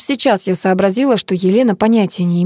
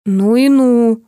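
mildly raised amazement; gasped astonishment; 3 semitones higher, 4 dB louder, much slower than usual. A narrator's reading. Narrator learns of the husband's death, gasping in astonishment. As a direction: react with a shocked exclamation. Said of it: "ахнула я".

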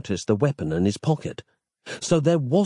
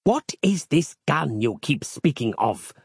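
confused; 5 semitones higher than usual. A narrator's reading. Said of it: "apparently confused".

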